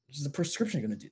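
ordinary delivery

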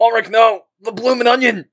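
a player's mock grief cry for a lost friend; mock anguished cry. Mock despair at NPC's fate.

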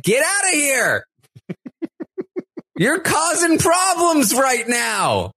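high, hammed-up shout at the intruder; mock angry yell. Kyle shooing Alyssa out of the shower, high mock yell. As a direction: squeal it out like a flustered guy in the shower. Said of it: "he's like".

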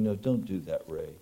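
soft, gentle voice of God; gently steer him away, softly; tender voice of mercy. Retold or imitated. God tenderly guiding the preacher, soft and gentle. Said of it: "tender words of mercy saying".

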